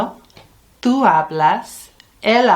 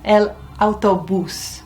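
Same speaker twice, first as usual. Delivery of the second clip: "El autobús" with the stress landing on the final bús; stress on the last syllable. Shown as a demonstration. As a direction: hit bús at the end of "autobús". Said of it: "you know where the accent is".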